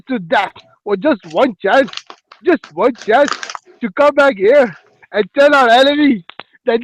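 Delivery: swooping, declaimed William Wallace speech in attempted Scottish; rally the army in an unconvincing Scottish accent; bad Scottish accent. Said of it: "I'm gonna do the Scottish accent".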